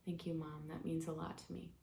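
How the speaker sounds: soft, quiet acted thanks; gentle gratitude. Daughter thanks mother for her love, softly grateful. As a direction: play a soothed child thanking a parent quietly.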